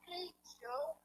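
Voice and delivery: very high, gushing, fast sweet-talk; fawning reporter. Retold or imitated. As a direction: coo over him like a starstruck fan. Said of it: "Joe Biden gets there and it's like".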